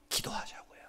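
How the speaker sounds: hushed urging; whisper. Acted. Preacher whispering the call to the congregation.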